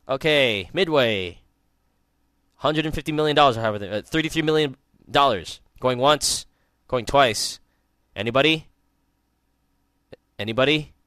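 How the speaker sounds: mock auctioneer calling bids; lightly imitating an auctioneer. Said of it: "it was like this".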